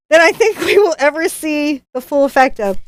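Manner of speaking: put-on loose, amateur Australian accent; bad Australian accent. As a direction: read on in your attempt at Australian. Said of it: "my not good Australian accent".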